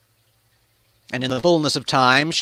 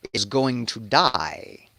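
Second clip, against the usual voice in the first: slow, softer pronouncement of doom; grave prophecy; 4 dB quieter, slower than usual. Acted. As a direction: let each word fall slowly.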